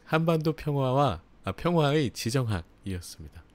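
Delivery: trips on 평화와 and corrects to 평화의 mid-line; stumble, then fix the book title; fumbled title. Real, not acted. Host announcing today's book, tripping over the title. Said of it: "오늘의 책".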